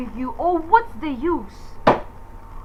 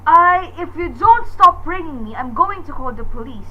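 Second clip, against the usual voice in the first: loud threat; 5 dB louder than usual. Acted. Threatening the caller.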